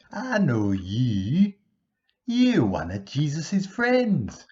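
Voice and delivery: high, loud and slow accusation; accusing servant girl. Acted. Servant girl accusing Peter by the fire, loud slow high voice. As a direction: point the finger, slow and loud. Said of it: "she said".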